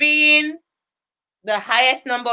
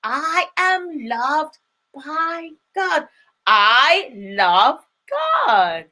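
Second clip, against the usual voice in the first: slow affirmation; much slower than usual. Shown as a demonstration. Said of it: "make sure you shout it with so much conviction".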